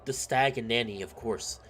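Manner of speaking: measured, storybook narration; story narration. A narrator's reading. Narrator setting the scene of a village homecoming, measured storytelling. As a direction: read the tale aloud evenly. Reads visual novel narration.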